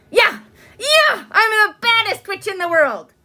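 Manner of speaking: high, loud cackling-witch boast; a masked witch taunting a prim girl; gleeful witch. A narrator's reading. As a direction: crow it like a naughty witch.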